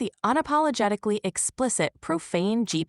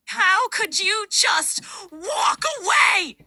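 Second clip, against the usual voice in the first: high, drawn-out crying wail; tearful breakup; 12 semitones higher, slower than usual. Acted. Dumped lover begging an ex for answers, tearful wail. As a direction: plead through sobs, pitch way up. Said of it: "That is Tearful Breakup Letter".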